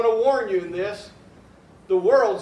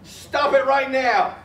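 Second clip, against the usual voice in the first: self-scolding; 3 semitones higher, slower than usual. Retold or imitated. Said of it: "I'm telling myself".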